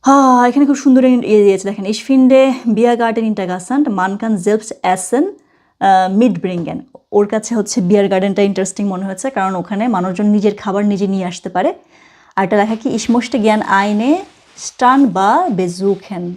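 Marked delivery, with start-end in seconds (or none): 1.9-6.8 very slow, careful textbook read; slow German reading. Shown as a demonstration. Reads German example slowly. 12.9-16.2 very slow, careful textbook read; slow German reading. Shown as a demonstration. Reads German example slowly.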